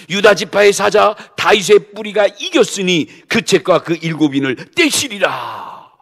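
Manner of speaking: loud, ringing declaration, slowing at the end; proclaiming elder. Acted. Elder proclaiming the Lion of Judah to John, loud. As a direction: announce the victory like a herald.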